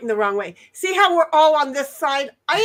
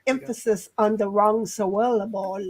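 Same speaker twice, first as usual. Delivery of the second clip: "syllable" distorted as sylLAble, stressed on the middle; misplaced word stress; 5 semitones lower, 4 dB quieter than usual. Retold or imitated. Host reads out Shia's chat joke, "syllable" stressed wrongly. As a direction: drag out the middle of "syllable", lower voice. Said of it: "And Shia's like".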